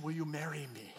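soft, intimate ask; softly, God proposing on his knee; tender proposal. Acted. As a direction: propose gently. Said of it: "God's on his knee, looking at you, saying".

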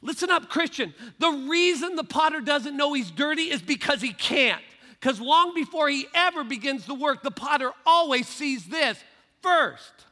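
loud, high-energy sermon delivery with punched key words; impassioned preaching. Real, not acted. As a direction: preach it with rising fervour. Preaching at full force.

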